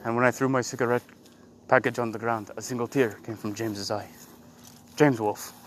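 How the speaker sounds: lightly voiced low, solemn Native storyteller; mock Native American narrator. Teasing friend with an Indian name, lightly mock-solemn low narration. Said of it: "That's your Indian name".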